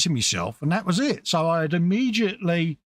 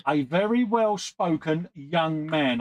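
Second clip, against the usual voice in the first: quoting the description; slower than usual. Retold or imitated.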